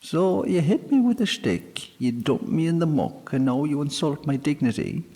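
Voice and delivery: high, squeaky fairy voice, quickening; fairy man listing her insults; outraged sprite. A narrator's reading. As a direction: splutter with injured pride. Sprite lists grievances.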